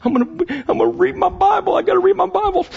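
very high, pinched mock-dutiful voice; high squeaky caricature of a dutiful Christian; anxious churchgoer. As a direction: lampoon the rule-bound believer ticking boxes. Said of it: "That's a perfect picture of how many of us".

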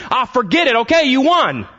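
high-pitched, fast surrender of a fed-up sibling; exasperated giving up. Acted. Siblings calling off hide and go seek, exasperated. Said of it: "getting to that point of exhaustion".

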